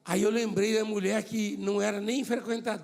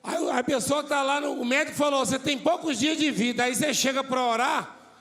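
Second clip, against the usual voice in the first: raised preaching voice; 5 semitones higher than usual. Real, not acted. Preacher louder, mocking the fearful.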